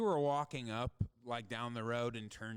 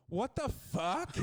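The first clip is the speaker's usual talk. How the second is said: high, drawn-out mock disbelief; imitated shock; 11 semitones higher, 4 dB louder, slower than usual. Partner caught by the flashlight, mock shocked. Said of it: "is on top of me and goes".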